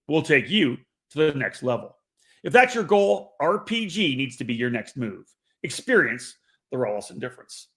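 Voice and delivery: upbeat commercial read. Acted. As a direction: sell it like a radio spot. Reads sponsor ad.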